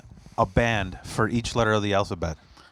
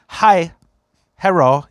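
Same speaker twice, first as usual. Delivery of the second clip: imitated Japanese accent, a bit higher and louder; 4 semitones higher, 5 dB louder, slower than usual. Merch girl greeting him outside, imitated Japanese accent. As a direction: mimic a Japanese English speaker's greeting. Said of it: "said something really Japanese".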